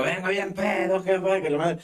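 put-on slow, slurred drunk announcement; a hint of a drunk kid bragging; telling his mother he's drunk, slowly slurring. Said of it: "y yo".

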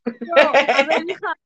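loud, exasperated "no, a ver"; exasperated outburst. Acted. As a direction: scold her in mock exasperation. Corrige a la alumna. (la profesora regaña a Marina con fastidio exagerado)

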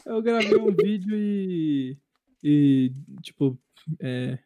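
losing the thread mid-sentence; slow, words fading into filler; trailing off. Real, not acted. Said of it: "eu esqueci o que eu ia falar totalmente".

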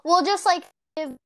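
glitching call audio; breaking-up video call; wobbly warbling call audio. Real, not acted. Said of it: "you glitched up".

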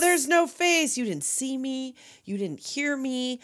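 slow, drawn-out mock warning; a hint of eerie menace, stretched out; lightly voiced mystery figure. Acts out faceless man's eerie warning.

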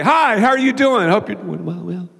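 high, bright start fading to nothing; fader. Shown as a demonstration. Pastor imitating a fader's greeting, strong then fading out. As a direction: start strong, then die away to a mumble. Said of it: "they start out strong".

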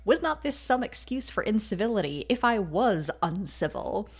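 acted retort, rising on each accusation; firing back. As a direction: build through the list of grievances. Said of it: "To which Elizabeth fires back".

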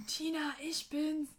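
stretched sing-out call, only pretending to yell; mock calling out. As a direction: imitate calling up to someone, without shouting. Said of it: "er hat dann irgendwie so gerufen".

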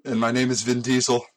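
bad English accent. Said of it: "describe what Vin Diesel looks like".

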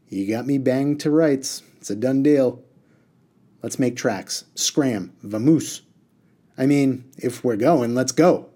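hurry-up genie, rising in volume. Acted. Reader voices the genie giving in.

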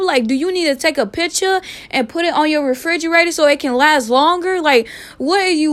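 sass him with fake politeness; sarcastic. Sarcastic retort to staring stranger.

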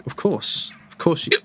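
whispered, hushed and secretive; stealthy whisper. Pretend. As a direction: whisper it as if sneaking. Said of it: "That's so stealthy".

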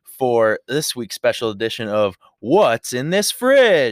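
upbeat segment announcer; show host intro. Acted.

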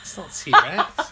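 slow, high laughing roar; dinosaur voice. Pretend. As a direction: stretch it into a dinosaur cry. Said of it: "It's generic dinosaur sound".

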